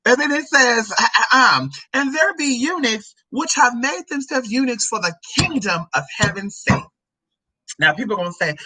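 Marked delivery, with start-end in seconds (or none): 1.9-6.8 raised-pitch Bible recitation; declamatory scripture delivery; scripture reading. Acted. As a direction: proclaim the verse to a congregation. Reads scripture aloud.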